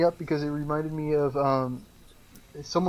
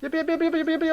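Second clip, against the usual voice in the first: mocking yep; 13 semitones higher, faster than usual. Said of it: "you don't say that".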